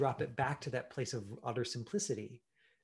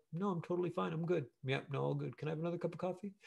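breezy denial; 5 semitones higher, faster than usual. Shown as a demonstration. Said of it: "then I just was like".

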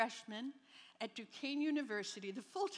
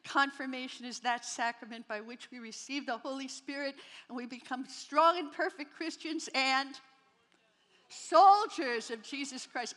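reciting catechism; 6 dB louder than usual. Retold or imitated. Girl proving she knew the catechism answer, proud rote recital. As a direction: rattle off the memorized answer proudly. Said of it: "I knew that answer".

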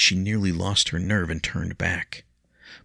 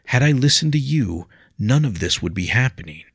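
regretful; 7 semitones higher, 6 dB louder than usual. A narrator's reading. William's regret.

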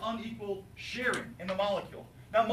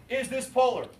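loud, pushy repeat of the question; emphatic; 4 semitones higher, 6 dB louder than usual. Retold or imitated. Student mockingly demands whether it is polar, loud and emphatic. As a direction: fire it back at the teacher. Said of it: "so emphatic".

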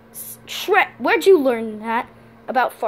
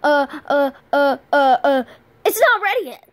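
nervous; 3 dB louder than usual. Acted. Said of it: "You sound nervous".

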